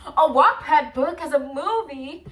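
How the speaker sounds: high, loud, giddy fangirl gush; high school fan freaking out over the movie news; excited fangirl. Retold or imitated. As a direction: relive the teen thrill, squealing a little. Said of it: "I was like".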